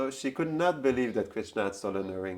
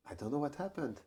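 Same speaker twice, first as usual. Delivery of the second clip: much softer, a small lost voice; soft and helpless; 10 dB quieter than usual. Retold or imitated. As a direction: say it quietly, like a bewildered girl. Radharani answers, helpless about the ring.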